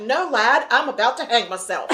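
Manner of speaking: lightly put-on Southern Irish accent; a hint of a Southern Irish lilt, deadpan. Grim dad answers the kid in a light Southern Irish accent. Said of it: "my Southern Ireland accent coming out".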